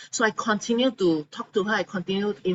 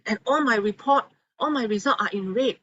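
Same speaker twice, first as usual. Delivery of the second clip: higher, indignant retort; angry patient; 7 semitones higher than usual. Retold or imitated. Patient tells her doctor off for the first time, indignant. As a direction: throw it back at the doctor in mock outrage. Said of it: "she was so angry with the doctor".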